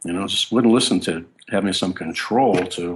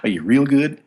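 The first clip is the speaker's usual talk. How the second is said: put-on Southern accent; 7 semitones higher, 4 dB louder than usual. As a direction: push it louder in a Southern accent. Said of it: "put up his best Southern accent".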